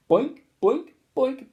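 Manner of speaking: high, loud bellow. Acted. Teacher bellowing as balls hit him, high and loud. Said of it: "he bellowed".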